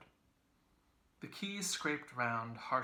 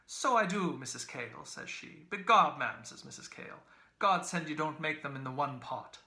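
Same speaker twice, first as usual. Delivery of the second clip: put-on wheedling old woman; 4 semitones higher, 7 dB louder than usual. A narrator's reading. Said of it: "went on hewing and wheedling".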